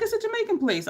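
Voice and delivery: a breezy matter-of-fact reply. Retold or imitated. The RA explaining the Jamaican place, matter-of-fact. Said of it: "She's like".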